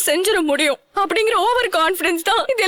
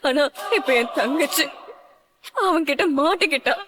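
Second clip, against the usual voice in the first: crying. Acted. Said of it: "அழாத தமிழ்".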